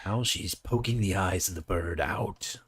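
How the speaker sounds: lightly narrated play-by-play; mock narration. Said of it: "You said narrate".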